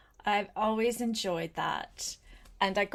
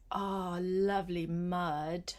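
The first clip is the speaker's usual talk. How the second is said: mild delight; 3 semitones lower than usual. Pretend.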